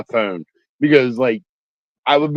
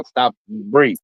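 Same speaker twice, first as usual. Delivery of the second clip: calming; slower than usual. Real, not acted. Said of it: "I can see it pounding".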